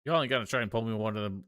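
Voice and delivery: combative Southern country woman; feisty Southern photographer. Acted. Plays indignant Southern photographer.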